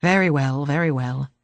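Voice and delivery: put-on a grudging old man giving in; grumbling old man. A narrator's reading. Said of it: "he grumbled".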